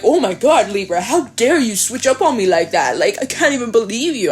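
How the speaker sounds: hammed-up affronted complaint with swooping pitch; put-on outrage in swinging intonation; mock indignation. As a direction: play the offended party, sing-song and over the top. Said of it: "I don't know why I'm talking like that".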